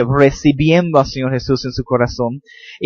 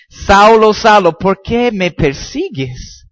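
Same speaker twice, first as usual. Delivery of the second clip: calling out; 5 semitones higher, 3 dB louder, slower than usual. Acted. Voice of Jesus calling Saul.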